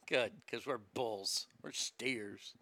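low, soft mock cow voice; offended cow. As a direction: speak as a huffy steer. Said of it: "I'm offended as a cow".

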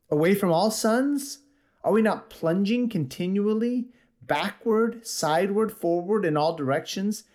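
preacher voicing the madman to the congregation; impassioned madman. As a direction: pour out the madman's lament. Reading the madman's speech.

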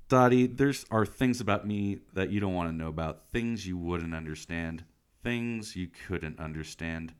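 low, solemn mock-dramatic warning; mock brooding. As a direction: play the mysterious loner, fading down. Melodramatic brooding brush-off in retold scene.

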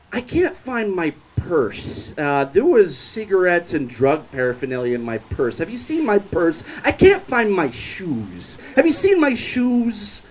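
lightly imitated drunk, stretched-out words; drunk woman. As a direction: whine lightly like a drunk who lost things. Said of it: "she is very visibly drunk".

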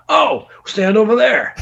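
high, slow, exasperated mock call; retold shooing order. Friend on makeshift toilet shooing the photographer, high mock order. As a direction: imitate waving someone off loudly.

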